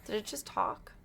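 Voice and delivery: whispered. Acted. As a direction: hush it like a secret. Repeats the question whispered.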